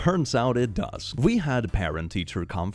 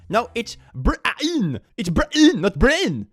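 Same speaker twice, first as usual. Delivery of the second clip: indignant mother; 13 semitones higher, 5 dB louder, slower than usual. Retold or imitated. Mother correcting the receptionist.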